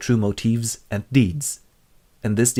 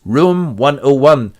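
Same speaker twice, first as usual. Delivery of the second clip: slow, heavy, measured; O'Brien announcing the room, slow and grim; ominous O'Brien; 3 semitones higher, 6 dB louder, slower than usual. Acted. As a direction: sentence him. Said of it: "O'Brien enters and goes".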